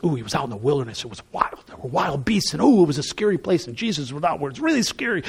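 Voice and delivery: mock spooky tone. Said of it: "the idea right away is".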